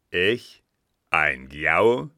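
loud, incredulous question rising at the end. A narrator's reading. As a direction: throw the accusation back loudly. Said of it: "entgegnete Richemont mit erhobener Stimme".

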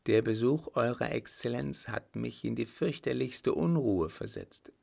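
a hint of a polite, troubled fiancée; anxious young fiancée. Young lady confessing unease to the marshal, mildly anxious.

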